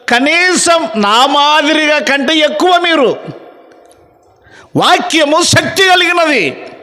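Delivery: full-force preaching. Acted. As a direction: preach it out with fire to the hall. (బిగ్గరగా ఉద్రేకంగా బోధ)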